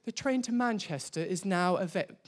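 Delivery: lightly put-on English announcer accent, quick; attempted English accent. Preacher mimics the Euston announcement, attempted English accent. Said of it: "that's my best English accent".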